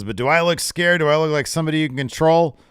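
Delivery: loud, high, fast intense taunting; intense promo voice. Retold or imitated. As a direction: fire it up like a wrestler's promo. Redoing Shotzi's promo, louder.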